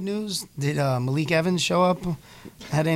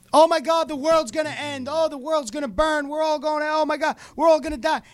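doomsayer; 8 semitones higher than usual. Retold or imitated. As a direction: shriek that the world is ending. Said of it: "he's like".

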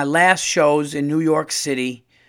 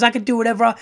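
higher, louder cranky Gumby; imitating Gumby; 8 semitones higher, 4 dB louder, much faster than usual. Comedian quoting Gumby demanding respect, higher and louder. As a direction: bellow it like a washed-up claymation star. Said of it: "He goes".

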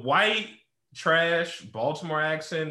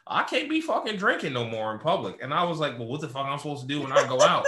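mock parolee. Friend plays a parolee griping to a parole officer, laughing. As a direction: play a fed-up parolee, laughing through it. Role-play parolee bit.

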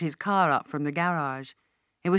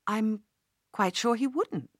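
raised pitch, caught off guard; surprised; 4 semitones higher than usual. Acted. Paula, surprised by Uncle Ronnie's question, answering with raised pitch. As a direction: she didn't see this coming. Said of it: "she said at last in a surprised voice".

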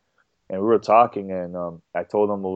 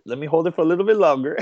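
laughing fast and higher while fighting tears; 8 semitones higher, faster than usual. Real, not acted. On stage, fighting tears before his speech, laughing quickly. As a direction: giggle it out quickly, holding back the crying.

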